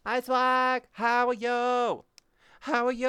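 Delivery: squeaky hello to a friend in VR; high cutesy greeting. Pretend.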